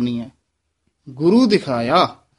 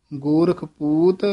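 ਗੋਰਖ held, then a short stop before ਪੂਤ; slight break between ਗੋਰਖ and ਪੂਤ; pause after ਗੋਰਖ. Shown as a demonstration. Teacher showing students the pause after ਗੋਰਖ. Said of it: "ਇੱਥੇ ਠਮਕ ਹੈ".

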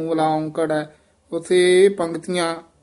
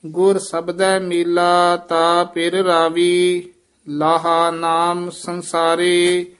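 slow, measured chanting of the verse; slow hymn recitation; slower than usual. Shown as a demonstration. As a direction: chant each line slowly with long pauses.

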